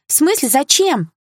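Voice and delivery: high, drawn-out dismay; alarmed protest. A narrator's reading. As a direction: object in whining disbelief. Bully alarmed by director threat.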